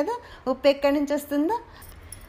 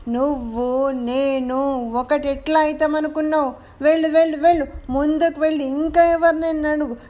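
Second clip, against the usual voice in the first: booming sky; 3 dB louder than usual. Acted. The sky booms down at the doll, lordly. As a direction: boom it down from above.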